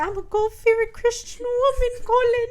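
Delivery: high-pitched, hammed-up plea; mock pleading. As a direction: plead like a melodramatic heroine, half laughing. Acting out the heroine's pleading.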